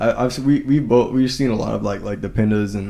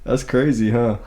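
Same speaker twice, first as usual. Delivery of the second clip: sarcastic; 6 semitones higher than usual. Retold or imitated. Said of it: "I was like".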